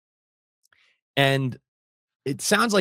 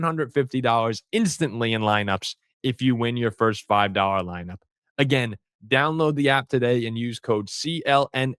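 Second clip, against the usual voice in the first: upbeat, pitched-up ad read; sponsor ad read; 2 semitones higher than usual. Acted. Host reading a sponsor ad to listeners, upbeat ad read. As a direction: sell the app like a radio spot.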